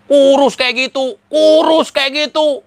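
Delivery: high, loud mock-amazed exclamation; hammed-up astonishment; mock shock. Mocking the fans' shock at how thin he got.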